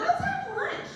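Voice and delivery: put-on high, bright girlfriend chirp; chirpy friend. Friend inviting her to lunch, high chirpy voice. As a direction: squeak it like an eager friend.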